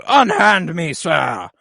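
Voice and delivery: prissy, indignant brat pitched high and loud; spoiled prince. Retold or imitated. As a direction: squeal it like an entitled rich kid. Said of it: "Aegon goes".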